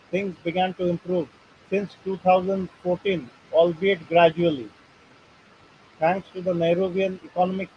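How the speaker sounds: halting read-aloud from a printed article. Real, not acted. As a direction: read the text out in short phrases. (लेख पढ़कर सुनाते हुए)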